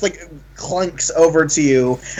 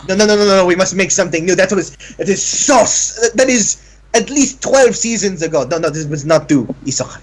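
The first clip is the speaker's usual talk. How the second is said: flamboyant tailor. Acted. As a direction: gush and scoff like a fashion diva. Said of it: "he goes".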